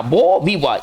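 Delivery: बो, then वी वॉ, endings silent; बो वी वॉ in open syllables; French pronunciation demo. Shown as a demonstration. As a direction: say बो वी वॉ as "bo vee-waw". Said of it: "ये जो silent हो जाएगा".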